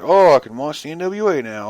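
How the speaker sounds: light, mock-cheerful fan voice. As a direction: mimic a fan who shrugs it off. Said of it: "people are just like".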